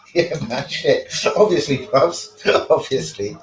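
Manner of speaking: chuckling through the reply; laughing. Real, not acted. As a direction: agree with a real laugh breaking in.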